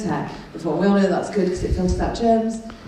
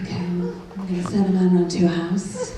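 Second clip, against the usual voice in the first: sultry phone voice. Retold or imitated. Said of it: "a voice like a sex chat line".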